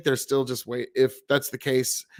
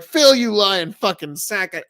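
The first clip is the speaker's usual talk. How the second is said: angry; 6 semitones higher, 7 dB louder than usual. Retold or imitated. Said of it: "it's like".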